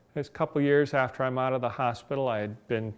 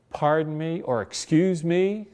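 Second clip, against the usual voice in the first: raised, startled polite query, higher and louder; startled polite question; 6 semitones higher, 7 dB louder than usual. Retold or imitated. Man startled on a bench asking a passing woman, raised polite query. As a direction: ask politely but caught off guard.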